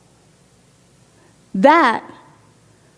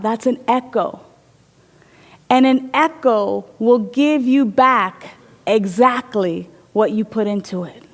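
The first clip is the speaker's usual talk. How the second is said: gentle explanation; 4 dB quieter than usual. Acted. Parent gently explains to child.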